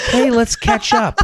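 slow, high, stiff robot voice; robotic catch-up line. Pretend. Podcast host mocking a stock text, slow robotic voice. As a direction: glitch it out like a malfunctioning bot. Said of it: "You just malfunctioned".

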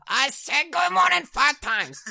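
very high, loud put-on wail; exasperated Japanese teller. Teller fed up with dad's wordplay, loudly exasperated. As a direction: stretch it out in mock exasperation.

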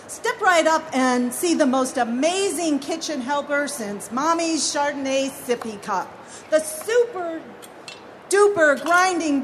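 retry the barker pitch, toned down. Acted. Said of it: "Take two".

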